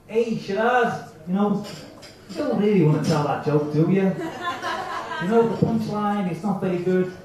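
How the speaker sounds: lightly put-on Italian accent; nagging inner voice with a slight Italian lilt; little Italian accent. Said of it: "in a little Italian accent".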